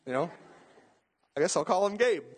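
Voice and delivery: high airy fond sigh of the name; mock tender mother naming her baby; Erica's sigh. Preacher imitating his wife naming the baby, high and fond. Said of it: "And then Erica's like".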